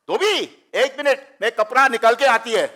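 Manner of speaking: high-pitched imitation of a screaming grandmother. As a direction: holler at the laundryman as an old woman. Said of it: "seventy-five-year-old woman is screaming at him".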